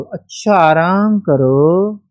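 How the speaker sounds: slow, drawn-out mocking "आराम करो" with a rising end; sarcastic. Mother-in-law mocks daughter-in-law's rest order, sarcastic drawl. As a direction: sneer at the idea of rest. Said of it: "ये sarcasm".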